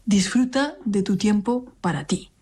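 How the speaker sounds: lightly voiced tender AI assistant; a hint of a sweet, personal smart-home voice; caring assistant voice. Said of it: "muy cariñosa y personal".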